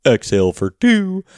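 lightly voiced coach counting breaths; a hint of a fitness coach giving counts; playful imitation of a breathwork instructor; mock breath coach. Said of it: "like, a coach".

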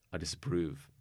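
low, quiet disapproving cat; disdainful cat voice. Retold or imitated. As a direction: sniff it out like a snooty cat. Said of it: "Bradley, our cat, is very much like".

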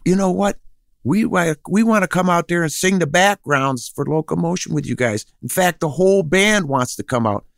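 lightly voiced eager invitation; quoting the backup singers. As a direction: pitch up to play the excited singers. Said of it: "they said".

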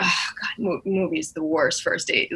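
unvoiced, hushed whisper; a soft retold whisper of dread. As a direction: whisper it like a secret complaint. Whispered aside about movie date.

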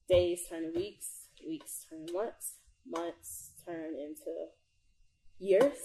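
slow, dropping, drawn-out phrases; slow build. Real, not acted. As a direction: let each step of time sink in slowly. Slowing build to a point.

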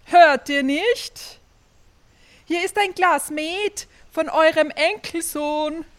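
calling out loud. Acted. Innkeeper calling loudly to the deaf grandmother, loud and high. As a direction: call out loud and high so she hears. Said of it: "Er rief noch einmal".

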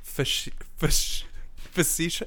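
slow, breathy stumble toward facetious; fighting the word facetious, slow and breathy; struggling to pronounce. Real, not acted. Host stumbles over facetious while asking her co-host a question.

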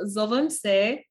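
zovem se said slowly, syllable by syllable; slow demo of "zovem se"; slow careful Serbian. Shown as a demonstration. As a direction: spell out "zovem se" gently. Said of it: "take it slow".

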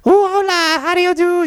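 a playful high coo to a suitor; flirty woman voice. Retold or imitated. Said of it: "and she's like".

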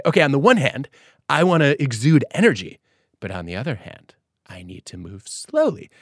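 shifting down. Retold or imitated. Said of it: "found it really tricky to say".

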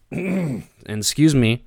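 losing my voice, straining; voice giving out. Real, not acted. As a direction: talk through a failing voice. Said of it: "I'm losing my voice".

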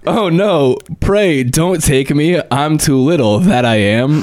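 high-pitched storybook goat plea; high little billy goat, pleading. A narrator's reading. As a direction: beg in a high, small voice. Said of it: "said the billy goat".

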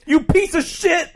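high cartoon voice insult; squeaky character swearing; high mock insult. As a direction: spit it in a squeaky voice.

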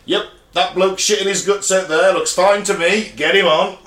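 lightly voiced, offhand ship's doctor; careless doctor. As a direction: wave them through as a mock inspector. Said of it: "Well, the doctors at England just went".

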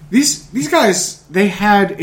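high, slow emphatic these guys. Real, not acted. Dramatic reintroduction of launderers.

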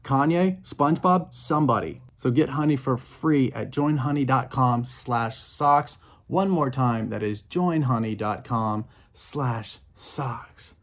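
punchy host sponsor read; emphatic promo read, spelling out the link; podcast ad read. Acted. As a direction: sell it, then slow down for the web address. Reads a sponsor ad.

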